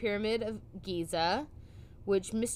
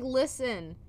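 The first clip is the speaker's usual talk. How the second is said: mock authorities voice; 5 semitones higher, slower than usual. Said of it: "they're like".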